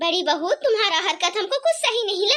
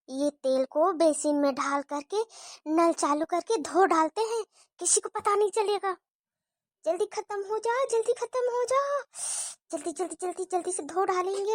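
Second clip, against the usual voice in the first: hushed scheming; 3 semitones lower, 5 dB quieter than usual. Acted. Hiding oil, talking quietly to herself.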